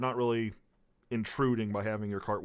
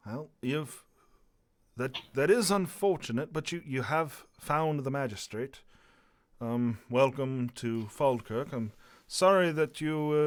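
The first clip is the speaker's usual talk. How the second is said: lightly voiced dignified dwarf, slowed at times; a touch of a kindly dwarven official; mild dwarf magistrate voice, sympathetic; 3 semitones higher than usual.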